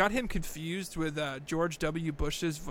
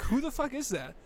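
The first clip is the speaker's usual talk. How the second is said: much higher, baffled; baffled mock voice; 9 semitones higher than usual. Realising the voice wasn't Nixon, high baffled exclamation. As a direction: say it like you can't believe your ears. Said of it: "I'm like".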